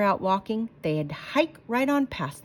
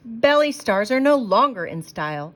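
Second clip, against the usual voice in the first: salesman pitch; 4 dB louder than usual. Acted. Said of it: "said McBean".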